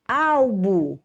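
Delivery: Albo with a strong AU; teacher's demo of Albo, stressed AU; stress on first syllable. Shown as a demonstration. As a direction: say Albo with the weight on AL. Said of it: "o au é a sílaba mais".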